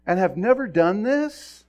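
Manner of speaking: acted exasperated protest; remonstrating donkey. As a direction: plead your case loudly, climbing to a cry. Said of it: "the donkey talks back again".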